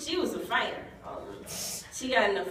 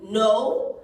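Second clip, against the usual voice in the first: insistent no; 9 dB louder than usual. Retold or imitated. Stranger's insistent no.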